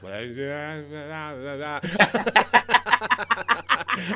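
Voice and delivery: imitating a groggy wake-up mumble, then laughing; drowsy nonsense noises dissolving into a laugh; sleepy mumbling. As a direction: mumble wordlessly as if half asleep, break into laughter. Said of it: "this is how it sounds".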